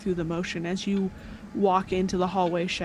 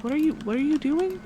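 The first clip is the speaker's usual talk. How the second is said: surprised NPC; 6 semitones higher, faster than usual. Acted. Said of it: "she's like".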